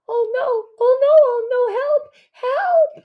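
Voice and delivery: high frantic screams for help; screaming. A narrator's reading. Neighbour woman screaming down the hall in panic. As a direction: shriek it out in panic. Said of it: "A woman screams".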